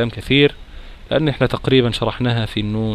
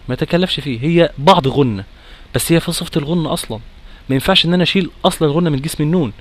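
ordinary talk, nothing marked

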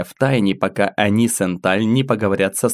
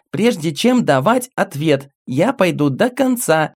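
put-on a little girl spelling out each word; carefully enunciating; 8 semitones higher than usual. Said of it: "старательно выговаривая слова".

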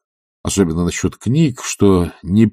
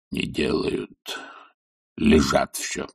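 ordinary delivery

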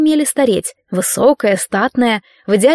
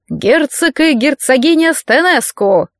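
slow, higher ceremonial announcement; town crier; 4 semitones higher, slower than usual. Acted. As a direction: announce the guests slowly for the whole hall. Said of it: "раздался голос глашатая".

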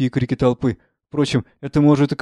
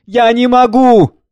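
high, loud, drawn-out cry; 11 semitones higher, 10 dB louder, slower than usual. A narrator's reading. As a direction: cry it out slowly at high pitch. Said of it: "Жанна кричит". (кричит, протяжно)

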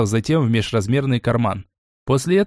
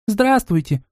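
put-on child shouting hello; 9 semitones higher, slower than usual. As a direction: shout the hello like a little kid. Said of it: "в тон ей прокричала младшая".

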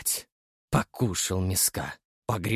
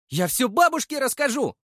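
put-on childish wail. A narrator's reading. Boy threatens to tell grandma, high childish wail. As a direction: whine like a tattletale.

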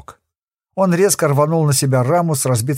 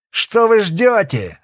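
higher, louder, slow furious bark; angry yell; 7 semitones higher, 3 dB louder, slower than usual. A narrator's reading. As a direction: roar at the cowards. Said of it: "заорал Кокон".

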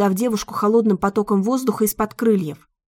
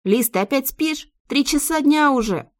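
higher worried friend on the phone; 5 semitones higher than usual. A narrator's reading. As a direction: sound concerned and urgent. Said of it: "озабоченный голос Юли".

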